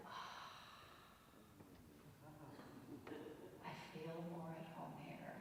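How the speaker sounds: soft, contented sigh as if home; relieved sigh. Retold or imitated. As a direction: sigh out and settle in, quietly. Acts mother's relief on arriving.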